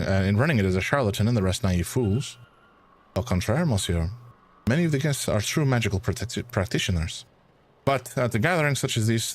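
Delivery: put-on light French accent, calm and sure; French-accented academic correcting him gently. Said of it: "it's gonna be a struggle for me to keep this accent".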